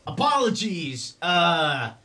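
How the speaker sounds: high, slow mock-courteous goblin voice; overly polite goblin. Goblin apologizing to the owner, high mock-polite voice. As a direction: grovel with fake manners.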